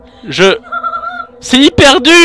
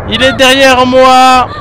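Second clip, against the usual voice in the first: mock panic; slower than usual. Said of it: "écoutez comme je panique".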